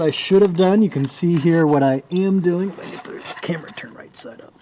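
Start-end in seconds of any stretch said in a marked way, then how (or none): 2.8-4.5 whispering. Real, not acted. Adjusting camera under car.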